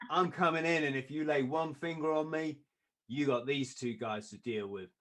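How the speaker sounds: lightly attempted Kiwi-accented threat; crap Kiwi accent. Manager with two heavies warns doorman, mock Kiwi threat. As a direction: have a half-hearted go at a Kiwi accent. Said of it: "trying to do the crap accent".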